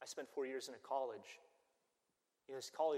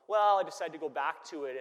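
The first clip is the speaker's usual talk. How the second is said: sheepish excuse; 4 semitones higher, 14 dB louder than usual. Retold or imitated. Voices a sheepish reply.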